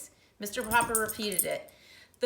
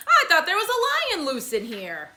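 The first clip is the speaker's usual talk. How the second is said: policeman; 7 semitones higher, 10 dB louder than usual. Acted. Policeman voiced in story.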